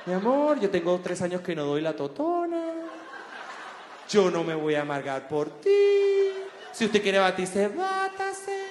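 unbothered mom, mildly voiced; a relaxed mother who won't be upset; calm mother. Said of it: "con una tranquilidad". (madre tranquila, apenas actuada)

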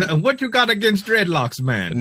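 put-on a clumsy try at a Jamaican accent. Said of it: "the worst Jamaican accent".

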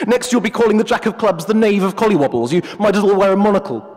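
a hint of a haughty professor; pompous wolf. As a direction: play the wolf as a self-important academic. The wolf mocks.

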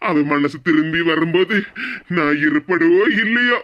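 crying. Acted. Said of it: "இந்த மாதிரி வார்த்தையெல்லாம் சொல்லாதீங்க".

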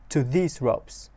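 very slow, stretched phrase; careful slow read; slow lyric reading. Shown as a demonstration. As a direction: read it slowly for learners. Teacher reads slowly.

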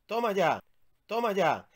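grito de alegría, agudo y fuerte; triunfo alegre. Acted. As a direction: celebra el hallazgo a voces. Encuentra el chocolate. (¡Toma ya! gritado de alegría)

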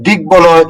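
দিক বলয় said "dig-boloy", b fully sounded; দিক বলয় as one word with a full b; unchanged b. Shown as a demonstration. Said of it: "অবিকৃত".

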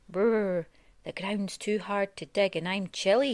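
complaining mole. Acted. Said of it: "he complained".

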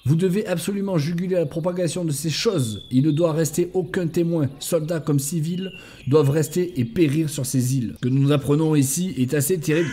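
measured, evenly intoned briefing; military report reading. Acted. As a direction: read out a mission report item by item. Reads in-game orders aloud.

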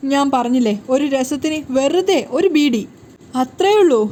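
scolding him, building to the last words; angry. Acted. Wife to husband over the beedi, angry scolding. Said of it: "ദേഷ്യത്തോടെ".

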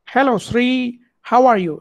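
light imitation of an English accent; mock English accent. Showing students how users mimicked English people for voice assistants, mock English accent. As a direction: mimic English people a little, careful and deliberate. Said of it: "mimic, like, uh, English people".

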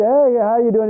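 lightly hammed-up hillbilly accent; silly hillbilly accent. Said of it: "had a little silly accent".

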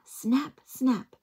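loud, high snapping; snapping turtles. Acted. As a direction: snap out the words like turtles.

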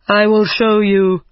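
a touch of giant temper, indignant; said angrily. Acted. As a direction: giant bristling at being doubted, mildly angry. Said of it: "he said angrily".

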